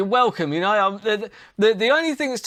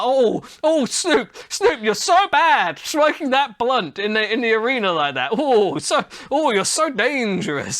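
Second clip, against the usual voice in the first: mocking fanboy; 2 semitones higher than usual. Host mocking fans who gush over a rapper smoking. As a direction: coo over a rapper like a starstruck fan. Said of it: "It's not like".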